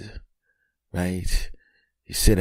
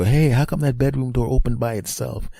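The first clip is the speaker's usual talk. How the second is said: wife's puzzled voice; 7 semitones higher than usual. Retold or imitated. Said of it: "they're gonna go".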